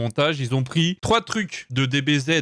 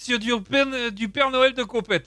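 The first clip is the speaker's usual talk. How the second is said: excited; 7 semitones higher than usual. Real, not acted. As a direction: shout it out, thrilled. Excited at the VHS Santa.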